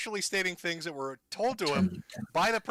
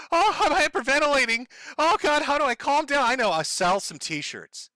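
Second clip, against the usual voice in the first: hammed-up panic, pitched much higher; mock hysterics; 9 semitones higher than usual. Streamer mocking rivals who expect him to cry: high, hammed-up sobbing panic. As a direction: fake a breakdown, gasping for effect. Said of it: "should I start sobbing".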